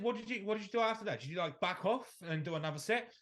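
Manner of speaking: quick, exasperated quizzing; incredulous questioning. Retold or imitated. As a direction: press the client in disbelief. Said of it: "And I said".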